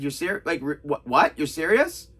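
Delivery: stumbling, restarted disbelief; imitating a stunned double take; retold stunned stammer. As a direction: trip over the words in mild shock. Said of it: "he just shocks".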